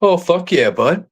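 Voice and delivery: a hint of Bubbles, lightly voiced; Bubbles impression. Joking with friends, a light Bubbles voice. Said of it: "You remind me of Bubbles".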